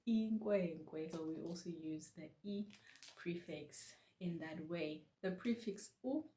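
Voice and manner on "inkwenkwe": slow, careful Xhosa inkwenkwe with a clear nk; Xhosa word. Shown as a demonstration. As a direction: spell out inkwenkwe slowly. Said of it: "we say".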